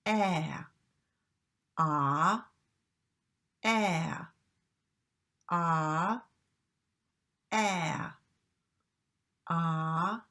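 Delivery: repeated flat æ, tongue forward; "ah" as a front æ, each held apart; drilled æ vowel. Shown as a demonstration. Teacher repeating the vowel for students to copy. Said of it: "your tongue comes up and forward".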